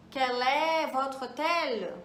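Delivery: slow, careful French model sentence; slow model phrase. Shown as a demonstration. Teacher modelling a French question for students, slow and careful. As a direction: spell out each French word slowly for the learner. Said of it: "vamos pensar outro aqui".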